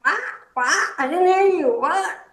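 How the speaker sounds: sharp, high, loud "What?" over and over; repeated confused what. Shown as a demonstration. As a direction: bark out "What?" like a lost listener. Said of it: "Instead of saying".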